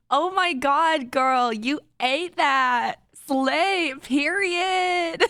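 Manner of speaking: put-on drawled slay-girl gushing; ironic zoomer. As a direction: gush it like a trendy zoomer. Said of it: "that voice would be the same voice as".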